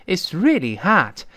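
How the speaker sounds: American hot with an open ah vowel; American-accented hot; American pronunciation. Shown as a demonstration. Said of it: "美音中完全变成啊这个声音".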